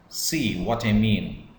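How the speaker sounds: falling tune through "See what I mean", like a statement; simple sentence pitch. Shown as a demonstration. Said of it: "or it's a question".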